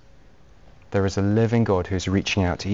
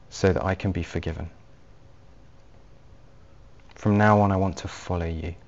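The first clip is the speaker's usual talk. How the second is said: low, hushed and unhurried, praying for others to follow; gentle, quiet prayer; 4 semitones lower, 8 dB quieter than usual. Real, not acted. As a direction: pray it gently and quietly, leaving space after each phrase. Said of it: "gently and quietly pray a prayer".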